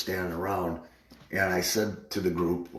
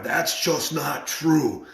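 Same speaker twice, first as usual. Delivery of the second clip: drawn-out, higher-pitched retold contradiction; emphatic denial; 5 semitones higher, much slower than usual. Friend contradicting him after the claim, emphatic denial. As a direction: deny it slowly, pitched up.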